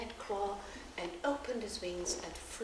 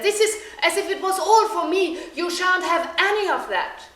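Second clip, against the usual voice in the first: loud, gloating and laughing; father gobbling the meal, laughing greedily; greedy laughing father; 8 semitones higher, 11 dB louder than usual. A narrator's reading. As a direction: laugh as he claims it all for himself. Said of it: "he said".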